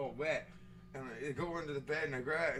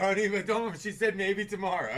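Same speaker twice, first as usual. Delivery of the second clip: lightly voiced soothing caseworker; 4 semitones higher, 6 dB louder than usual. Caseworker to art therapy patient, mock soothing. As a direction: coax a disappointed patient, half laughing. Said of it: "There's a caseworker standing behind every one".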